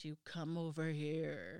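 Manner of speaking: spooky, low ghostly voice, drawn-out. Quoting an EVP recorded by ghost hunters, in a put-on ghost voice. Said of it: "but that was my ghost voice".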